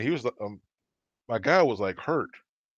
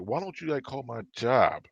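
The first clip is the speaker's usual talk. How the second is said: mild mock yell, indignant; heated retort at storytelling volume; retold yelling; 3 semitones higher than usual. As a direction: re-enact telling someone off, voice rising at the end. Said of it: "I just start yelling".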